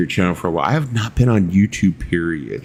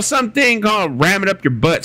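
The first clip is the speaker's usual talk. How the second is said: imitating Carl; 13 semitones higher than usual. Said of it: "he's all".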